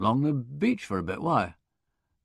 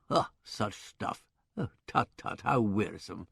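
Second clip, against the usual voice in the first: softer, slow, whispered sigh of boredom; mock weariness; 5 semitones lower, 7 dB quieter than usual. Wimsey mocking the tedious concert, whispered and slow. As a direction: drag it out like a bored dowager.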